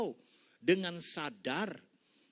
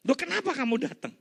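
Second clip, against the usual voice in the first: surprised; 9 semitones higher, 10 dB louder than usual. Acted. Pastor surprised at friend's return.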